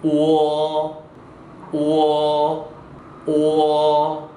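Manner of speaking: "오어" drawn out slowly, 어 only lightly sounded; long, steady model of "오어". Shown as a demonstration. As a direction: hold "오어" level, gliding gently into 어. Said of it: "뒤에 어자는 살짝만 발음".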